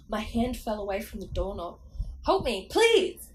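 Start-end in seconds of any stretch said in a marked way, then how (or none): 2.3-3.3 high, loud, drawn-out plea; slow screech for help, stretching the words; Slappy's screech. A narrator's reading. Dummy begging the family for rescue, screeched. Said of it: "Slappy screeched".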